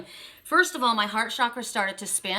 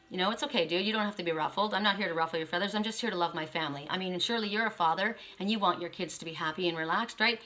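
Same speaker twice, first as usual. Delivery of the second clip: calm reassurance; 2 semitones lower, faster than usual. Pretend. Client calming the opposing lawyer, mild reassurance.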